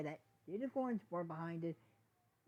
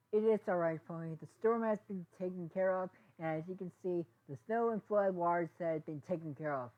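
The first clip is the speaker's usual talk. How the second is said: raised reassuring voice; 2 semitones higher, 6 dB louder than usual. Acted. Pony leader reassures Pony crowd.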